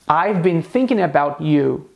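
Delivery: I've been thinking about you, slow, tongue between teeth on th; careful th sound. Shown as a demonstration. Teacher modelling the th in thinking slowly. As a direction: stretch out thinking with a clear th. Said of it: "o som do T H".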